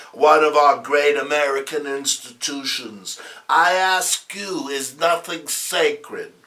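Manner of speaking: a hint of a pompous talk-show guest; smug author. Capone lecturing the TV host, lightly voiced and smug.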